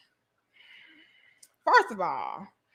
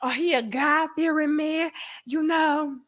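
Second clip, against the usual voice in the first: church lady. Retold or imitated. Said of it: "is like".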